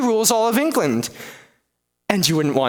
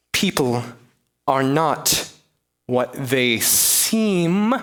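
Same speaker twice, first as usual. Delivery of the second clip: slow knowing echo; 4 semitones lower, much slower than usual. Acted. Echoing the lady's hint.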